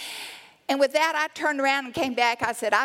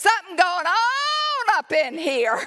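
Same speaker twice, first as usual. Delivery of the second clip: put-on sudden high yell, "on" stretched long; 7 semitones higher, 4 dB louder than usual. Speaker recalling a man at the healing center who started yelling, retelling a yell. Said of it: "he started yelling".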